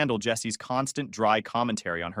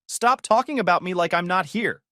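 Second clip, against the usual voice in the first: shrieking; 6 semitones higher, 3 dB louder than usual. Retold or imitated. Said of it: "she'd shriek".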